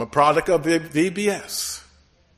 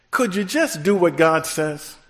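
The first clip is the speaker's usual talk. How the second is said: preacher's call. Shown as a demonstration. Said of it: "That's how we talk".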